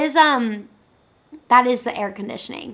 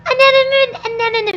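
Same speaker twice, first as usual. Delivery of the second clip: slow, loud and high attempt; careful slow try; 12 semitones higher, 9 dB louder, slower than usual. Real, not acted. Streamer slowly trying the word again, loudly. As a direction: stretch it out carefully.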